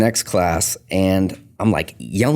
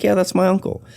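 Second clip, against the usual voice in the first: quoted woman; 12 semitones higher than usual. Retold or imitated. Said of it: "She's like".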